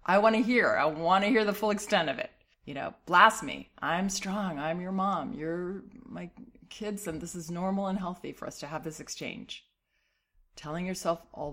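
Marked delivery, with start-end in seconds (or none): 0.0-9.7 brave parent voice. Pretend. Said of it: "Be this brave hero that says".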